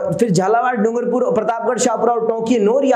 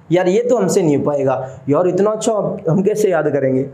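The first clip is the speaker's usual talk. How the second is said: lightly voiced student, a bit lower and doubtful; mock discouraged student; 5 semitones lower than usual. Teacher mimics a demotivated student to his class, mildly glum. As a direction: imitate a student losing heart, understated. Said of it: "हम अपने आप को demotivate कर लेते हैं खुद ही".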